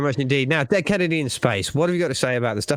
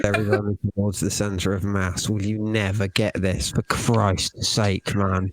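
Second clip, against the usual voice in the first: exasperated rant; 3 semitones lower, slower than usual. Real, not acted. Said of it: "I'm sorry, I'm getting angry".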